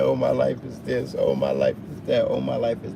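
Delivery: a hint of a moaning complainer; lightly mock the self-pitying friend; whiny complainer. Mimicking a friend who moans about life, lightly whiny. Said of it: "somebody sitting around here".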